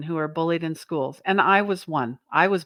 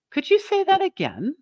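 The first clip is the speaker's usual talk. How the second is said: demo reply; 10 semitones higher than usual. Shown as a demonstration. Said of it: "Or you could say".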